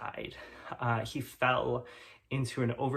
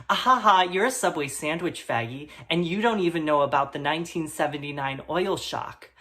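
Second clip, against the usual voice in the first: jeering bully; 3 dB louder than usual. Acted. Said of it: "and said".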